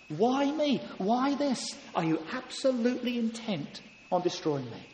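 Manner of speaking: high, pleading, rising anguish; desperate prayer. Acted. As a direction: pour out a broken heart to God. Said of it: "He cries out".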